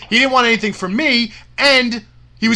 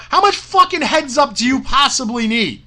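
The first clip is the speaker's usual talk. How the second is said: indignant, incredulous rhetorical questions; exasperated rant; 3 semitones higher than usual. Real, not acted. Promoter ranting at Bill about the heads up, exasperated. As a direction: demand it like you're fed up.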